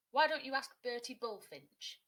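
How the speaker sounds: loud eager little bird; chirpy blue tit. A narrator's reading. Blue tit helping Kia, loud and eager. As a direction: pipe up loudly with the idea.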